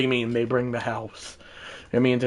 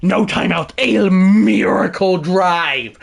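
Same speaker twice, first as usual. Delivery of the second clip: dramatic, stretched-out commentary; play-by-play announcer; 5 semitones higher, 5 dB louder than usual. Pretend. Streamer setting up his final drive, dramatic announcer delivery. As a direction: build tension for the last drive.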